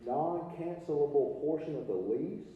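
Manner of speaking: NON-CANCELABLE stretched out slowly; slow, careful enunciation. Real, not acted. Lecturer returning to the lease definition, slow and careful on "non-cancelable". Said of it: "I have to say that real slow".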